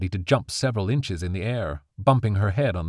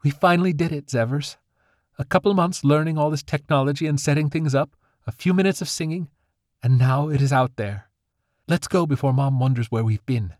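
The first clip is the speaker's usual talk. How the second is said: lightly voiced young fairy, higher; a hint of a pleased girl, pitched up; 6 semitones higher than usual. A narrator's reading. Fairy girl to her squirrel, lightly pleased. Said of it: "Pleased with herself, she said".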